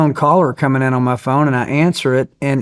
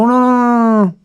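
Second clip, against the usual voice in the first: squeaky panicked no no no; panicked high protest; 10 semitones higher, 4 dB louder than usual. Retold or imitated. TVA man begs not to call the President, high panicked squeal. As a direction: mimic a man begging off in a high voice. Official panics at phone threat.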